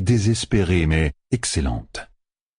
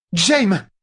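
urgent hiss; 13 semitones higher than usual. A narrator's reading. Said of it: "siffla Katana".

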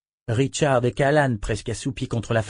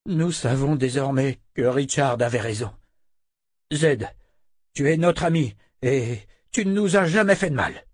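raised, earnest entreaty; Jehan, lightly voiced, pleading; 3 semitones higher than usual. Jehan begging Zed to forgive the men, raised and earnest. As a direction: win back a friend you wronged.

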